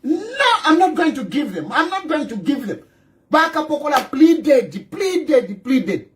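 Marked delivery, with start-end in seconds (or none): 0.0-2.8 mock stubborn refusal. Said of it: "she was".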